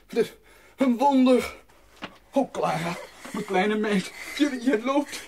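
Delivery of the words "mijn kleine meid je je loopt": words bubbling through happy laughter; laughing with joy. Acted. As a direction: laugh in disbelief as you say it. Vader ziet Clara weer lopen. (lachend van blijdschap)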